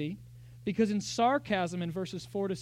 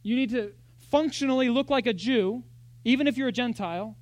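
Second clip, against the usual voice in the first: a hint of a pushy teacher, louder; lightly voiced insistent legalist; false teachers; 3 semitones higher, 6 dB louder than usual. Workers pressing Gentiles to be circumcised, lightly insistent. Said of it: "they were saying".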